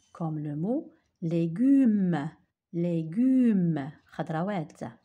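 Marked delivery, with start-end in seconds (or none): 0.1-3.9 légume slow and loud, the gu stressed; model word. Shown as a demonstration. Teacher drilling légume for the class. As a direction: stretch légume, hit the hard gu. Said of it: "G avec U nous donne gu".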